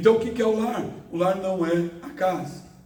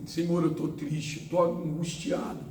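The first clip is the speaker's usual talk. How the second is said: honest sad prayer; 4 semitones lower, 3 dB quieter than usual. Retold or imitated. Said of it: "Como é que nós falamos com Deus?".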